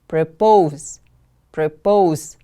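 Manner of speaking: "Propose" with POSE stressed and falling; careful teacher's "Propose", weight on the second syllable. Shown as a demonstration. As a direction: model "Propose" as pro-POSE. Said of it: "The stress is on the second syllable".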